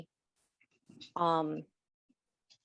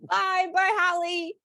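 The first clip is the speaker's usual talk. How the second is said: cheerful goodbye; 10 semitones higher, 5 dB louder than usual. Real, not acted. Laughing goodbyes.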